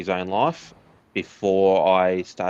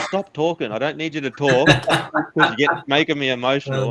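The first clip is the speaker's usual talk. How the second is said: higher, pleading, retelling asking her to stop; retold tearful plea; 4 semitones higher than usual. Runner retelling how he begged his wife to just stay on the phone, pleading high. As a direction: voice lifted high as if close to tears again. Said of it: "I was like".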